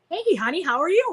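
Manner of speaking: imitating a fond, lilting phone hello; affectionate grandpa greeting. Acting grandpa greeting her on phone.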